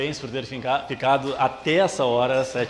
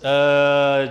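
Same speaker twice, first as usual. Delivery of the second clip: ordinary talk, nothing marked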